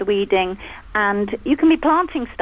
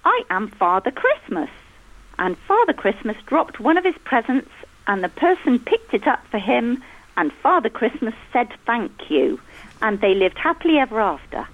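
put-on reading a child's story aloud to the room, a little higher; 3 semitones higher than usual. Mother reading her son's childhood story to the guests, storybook voice. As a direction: read it like a school storybook.

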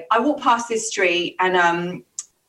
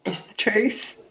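unvoiced whisper, leaning in with a secret; whispered reveal; 5 dB quieter, slower than usual. Real, not acted. Quietly revealing to the host that the story is true, whispered. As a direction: let the truth slip out in a breathy whisper. Teasing reveal after his guess.

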